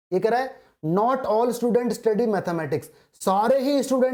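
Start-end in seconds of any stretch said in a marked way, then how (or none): 0.9-2.9 reading each word out very slowly; slow dictation. Shown as a demonstration. Teacher reading the question aloud to students, very slowly. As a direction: spell the question out word by word for the class.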